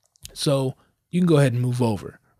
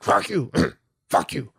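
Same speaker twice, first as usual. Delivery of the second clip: imitated tic.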